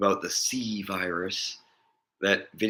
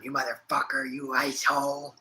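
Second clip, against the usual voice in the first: imitating angry grandma; 6 semitones higher than usual. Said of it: "she's always going".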